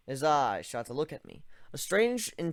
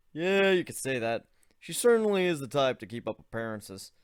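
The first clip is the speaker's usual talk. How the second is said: lightly voiced awkward young man; 4 dB louder than usual. Narrator voices Ivan.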